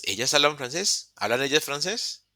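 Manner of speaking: "ellas hablan francés" rising like a question; "francés" lifted to mark a question; question intonation. Shown as a demonstration. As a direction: ask "¿Hablan ellas francés?" with an upturn at the end. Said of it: "La pregunta es".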